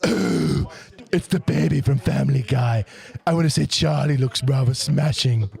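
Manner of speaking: posh cartoon-baby voice; posh accent. Co-host reading out a fan comment, posh accent. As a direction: put on a posh English baby. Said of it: "said in posh accent".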